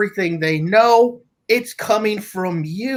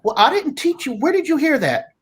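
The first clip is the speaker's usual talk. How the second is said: put-on quoting himself to the kids; 6 semitones higher, faster than usual. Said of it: "and you say to yourself".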